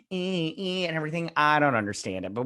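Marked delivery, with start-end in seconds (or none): 0.1-0.9 air guitar noise. Retold or imitated. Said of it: "people just grab a random object and they're all like".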